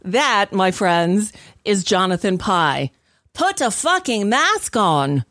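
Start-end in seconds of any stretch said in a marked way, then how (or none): 3.3-5.2 put-on slow, higher, weak British accent; a bad British accent, mimicking the rant line; attempted British accent. Host quoting the British ranter, in an attempted British accent. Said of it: "I don't do a good British accent".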